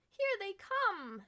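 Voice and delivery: high, loud, slow joyful shout. Acted. Old woman to her cat, seeing lanterns, shouting with joy. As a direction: call out the good news. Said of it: "she shouted".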